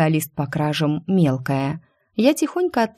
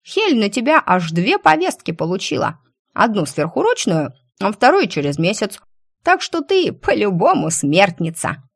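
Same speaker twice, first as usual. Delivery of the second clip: messy loud eating; 3 semitones higher than usual. Acted. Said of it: "Она жевала и болтала".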